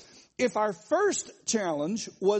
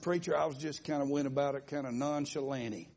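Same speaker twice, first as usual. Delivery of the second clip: mock fancy talk; 6 semitones lower, 4 dB quieter, faster than usual. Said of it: "trying to be fancy".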